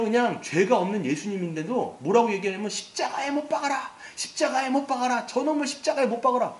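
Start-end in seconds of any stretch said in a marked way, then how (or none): 2.7-6.5 high, raised crowd chant of fury; angry mob shout. Retold or imitated. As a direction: cry it out like an enraged mob demanding crucifixion. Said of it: "분노가 막 끓어".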